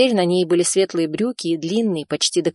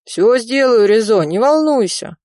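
louder, higher cousin soothing him; calm him down over the phone; reassuring cousin; 5 semitones higher, 5 dB louder than usual. A narrator's reading. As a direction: cousin reassuring a frightened Rizo. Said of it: "успокоил брат".

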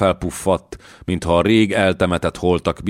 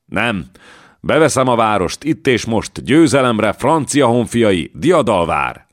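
rallying shout; 6 semitones higher, 4 dB louder than usual. Acted. Joan rallies troops again.

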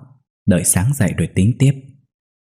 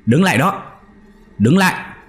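yelling at intruder; 2 semitones higher, faster than usual. Acted. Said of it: "liền quát lên".

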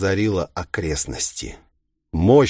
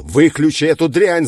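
louder, higher angry demand; angry growl; 8 semitones higher, 7 dB louder than usual. A narrator's reading. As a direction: growl the order with spite. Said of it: "злобно прорычал Такахаси".

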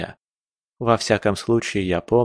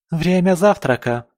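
put-on joyful girl; 7 semitones higher than usual. A narrator's reading. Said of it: "обрадовалась Джессика".

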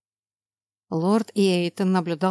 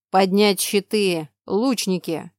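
slow, loud barked command; gruff barked parade orders; 4 dB louder, slower than usual. Acted. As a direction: bark orders to the troops. Commander orders under attack. (громкий отрывистый приказ)

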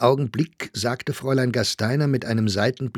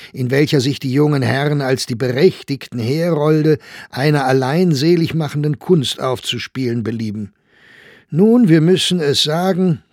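emphatic, raised read-out voice; reading a review aloud; 5 semitones higher, 6 dB louder than usual. A narrator's reading. Reading a scathing newspaper review to colleagues, emphatic. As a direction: read it out loudly to the table.

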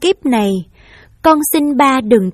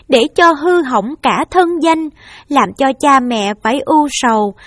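higher, raised voice, begging through tears; tearful pleading; 5 semitones higher, 4 dB louder than usual. Acted. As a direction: beg your mother to let you take the blame. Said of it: "ôm mẹ khóc và nói".

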